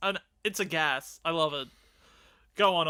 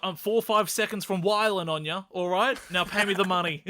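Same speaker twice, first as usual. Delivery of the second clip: threatening imitation of a singer; 2 semitones higher, 5 dB louder than usual. Retold or imitated. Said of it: "He's like".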